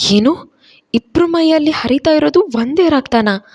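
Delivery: stunned wife questioning her husband; shocked disbelief. Acted. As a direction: blurt it out in disbelief.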